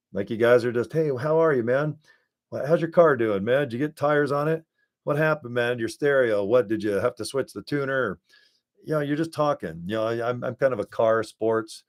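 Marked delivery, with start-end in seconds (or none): 0.9-8.2 higher, easygoing buddy small talk; casual buddy chat. Shown as a demonstration. Talking to viewers like a buddy, relaxed chatter. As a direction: chat like an old friend about his car. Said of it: "just kinda talk like this".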